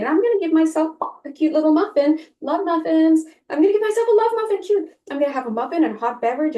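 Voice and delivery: hammed-up can-do enthusiasm about working on Christmas; playfully over-the-top happy self-talk; cheery positive spin. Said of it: "Make up a different story".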